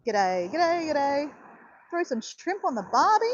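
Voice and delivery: lightly played-up Aussie accent; casual demo of an Australian accent. Shown as a demonstration. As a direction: show off a broad Australian twang a little. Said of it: "That's my accent. It's Australian".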